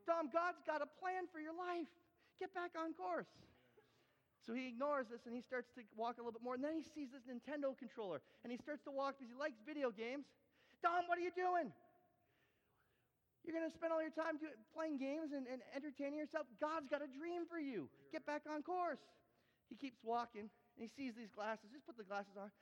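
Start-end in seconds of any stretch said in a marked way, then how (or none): 0.0-3.3 loud, high, urgent call to get back on course; preacher yelling to a wandering volunteer. Acted. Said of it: "and I go". 10.8-19.0 calling out. Acted. Calling Dom back on course.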